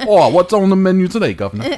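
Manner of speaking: a bad Trainspotting Scot; Ewan McGregor accent. Co-host admits a bad Ewan McGregor Scottish accent. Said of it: "now I'm just doing Ewan McGregor in Trainspotting".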